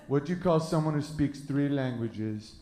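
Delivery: lightly put-on French accent; mock French accent. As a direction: imitate a Frenchman posing a riddle. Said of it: "this one French guy".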